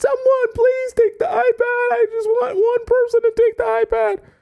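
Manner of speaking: high, shrieking yell. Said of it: "now I'm yelling on the street".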